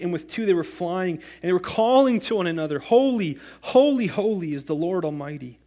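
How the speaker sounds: solemn scripture reading, building to the seraphim's cry. Acted. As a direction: read it out like a proclamation. Reads Isaiah six aloud.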